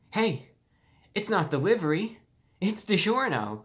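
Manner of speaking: high, loud and bright-eyed, slowing on DiGiorno; overjoyed slogan, high and loud; very happy tone. Shown as a demonstration. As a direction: sell it like the best day of your life. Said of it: "in a very happy tone".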